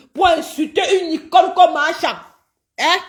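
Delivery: shouting out the insult; indignant shout. Real, not acted. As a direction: raise the voice in outrage. Angry rant at rival.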